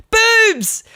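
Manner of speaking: squeaky high cartoon cry of lust; hormone voice. Hormones shouting at a teenage boy, high squeal. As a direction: hormones yelling out like a goofy gremlin.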